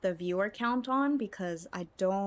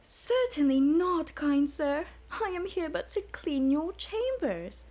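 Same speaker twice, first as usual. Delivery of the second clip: much higher, coy, prim falsetto maid voice; 9 semitones higher, 4 dB louder, slower than usual. Acted. Argonian maid fending off her master in a high, coy voice. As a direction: play the shy maid protesting sweetly.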